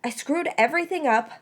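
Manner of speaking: words breaking into sobs; sobbing confession. A narrator's reading. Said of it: "she started sobbing again".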